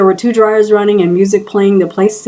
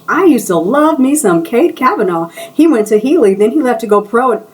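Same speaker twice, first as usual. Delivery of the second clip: higher, gushing fan squeal; light squeal of a starstruck fan; excited screech; 5 semitones higher than usual. Acted. Stylist gushing over the old basketball star, higher excited squeal. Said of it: "I heard Yvonne screech".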